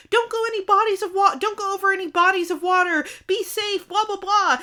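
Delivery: high-pitched mock calling-out, quick at first; retold yelling. Mom yells up at the sleigh, mock anxious calling. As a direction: imitate fussing up at someone flying away. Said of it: "like, yelling up at the sleigh".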